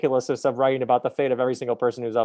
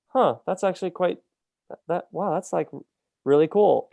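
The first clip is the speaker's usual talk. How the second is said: higher-pitched, halting amazement; mock-private moment of being impressed; acted impressed wonder; 5 semitones higher than usual. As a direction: let the wow dawn on you. Acts out being impressed by honour.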